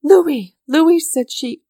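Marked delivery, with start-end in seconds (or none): 0.0-0.6 high, loud ecstatic call; ecstatic cry. A narrator's reading. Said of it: "in an ecstasy of joy". 0.7-1.0 high, loud rising call; rising ecstatic second call; ecstatic cry. A narrator's reading. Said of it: "in an ecstasy of joy".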